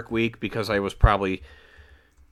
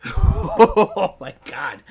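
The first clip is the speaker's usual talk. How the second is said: shaky laughing oh my God; laughing in shock; 4 dB louder, much slower than usual. Real, not acted. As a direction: laugh it out after a fright. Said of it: "That scared the shit out".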